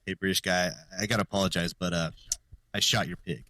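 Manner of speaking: lightly acted, subdued confession with hesitations; calmed-down apology. American apologizing to the British guy, calmed down a little. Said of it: "once he calms down a little bit".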